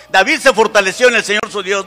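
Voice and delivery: loud preacher's proclamation; rallying shout. Shown as a demonstration. Preacher asks the congregation to shout the verse, loud rallying cry. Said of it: "Grítenlo, por favor".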